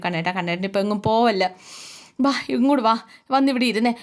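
a different voice for the wife; Geethu coaxing. Retold or imitated. Geethu coaxing Govind to stay, lightly voiced wife. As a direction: gently call him back to sit. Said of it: "Geethu പറഞ്ഞു".

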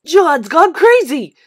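loud, slow schoolyard jeer; bully shouting across the street; taunting yell. Acted. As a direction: yell it out to mock him, drawn out. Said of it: "Spider yelled".

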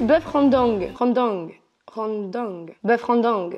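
répéter «rendang» en essayant sa prononciation; prononciation qui bloque. Real, not acted. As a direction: tester le mot «rendang», chaque essai détaché. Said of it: "Je sais pas si c'est mon accent qui bloque". («rendang» répété à tâtons, avec l'accent français)

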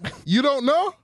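high, excited mock Jamaican coach; Jamaican accent. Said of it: "talking with a Jamaican accent".

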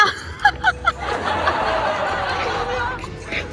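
bright giggling laugh; high giggle. Real, not acted. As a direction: giggle happily. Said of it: "되게 행복해 보여".

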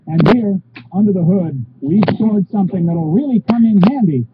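polished sales pitch voice; upbeat RV commercial narration; ad read. Acted. Reads ad copy on camera.

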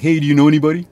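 rising, unsure question lilt. Retold or imitated. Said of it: "just ask through a quick text".

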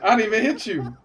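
high-pitched, incredulous protest; high, put-upon complaint; indignant protest. Acted. Protesting in a staged scuffle.

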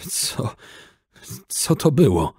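Czarny asks, shaken and confused after the fight; dazed question. A narrator's reading. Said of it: "zapytał po polsku".

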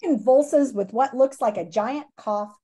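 lively storybook read-aloud for students; reading aloud to class. Acted. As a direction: read the chapter to the kids with expression. Teacher reads book to class.

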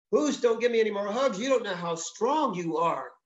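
a hint of a squeezed little bird; lightly pleading bird. Owl begging the bear to stop hugging, mildly pleading.

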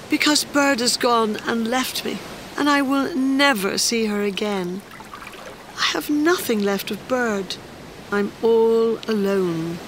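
high, plaintive little voice; forlorn small creature. Acted. Crying creature tells Fish of losing Bird, high forlorn voice. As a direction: lament it high, slowing at the end.

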